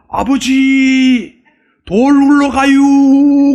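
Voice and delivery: drawled slow, high Chungcheong call; slow Chungcheong dialect. Retold or imitated. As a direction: stretch every syllable like a slow Chungcheong son. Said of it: "충청도 사투리가 참 느려요". (느릿느릿한 충청도 사투리)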